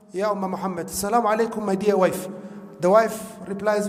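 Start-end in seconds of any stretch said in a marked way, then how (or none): 0.1-2.3 softly, a gentle retold greeting; tender greeting. Husband greets his dying wife in hospital, tenderly.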